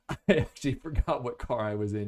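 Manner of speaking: chuckling while admitting a slip; amused, sheepish laugh; laughing at himself. Real, not acted. Reviewer laughing at his own forgotten car. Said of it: "Did you hear me kinda hesitate?".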